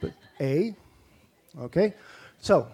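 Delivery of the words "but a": A said as a long Canadian ay sound. Shown as a demonstration. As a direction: say the letter A like a Canadian. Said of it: "I'm gonna sound really Canadian".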